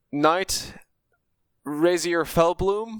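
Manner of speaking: high-pitched, nervous stammering stutter. Role-play game, answering a deep voice asking who's there: Razier Fellbloom's nervous stutter. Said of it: "He sort he sort of stutters a little bit".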